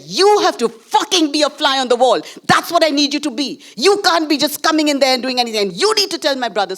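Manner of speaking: mock-stern instruction, rushed; not said gently. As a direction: bark out the brother's demand. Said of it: "So it wasn't said gently".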